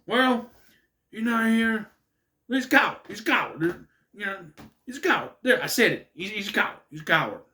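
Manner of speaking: lightly imitated commentator pressing an accusation; mildly acted commentary retort. Commentator branding the absent guest, mock indignant. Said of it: "He's like".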